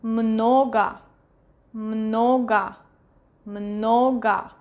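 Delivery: "много" said MNO-ga, stress on first syllable; "много" as MNO-ga for learners; clear stressed O. Shown as a demonstration. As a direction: model "много" with full O then A. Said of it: "Stress is going to this O".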